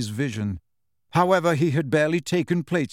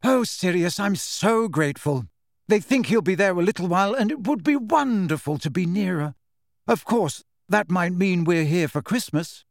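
grateful; 4 semitones higher than usual. Acted. Mrs Weasley thanking Sirius.

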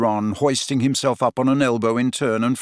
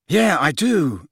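apologetic; 4 semitones higher, slower than usual. A narrator's reading. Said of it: "said Ron apologetically".

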